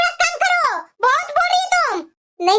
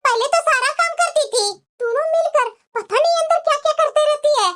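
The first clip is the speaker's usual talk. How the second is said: scolding mother-in-law; 2 semitones higher than usual. Acted. Mother-in-law complaining to her daughters-in-law about late food, nagging. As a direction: grumble like a bossy saas.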